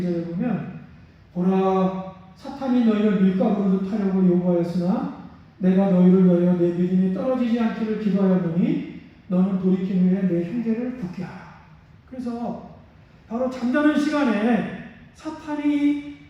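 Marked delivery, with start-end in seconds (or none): 1.3-11.5 louder, measured Bible reading; scripture reading. Acted. Preacher reading Luke's verse to the congregation, solemn. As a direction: read the verse out with weight.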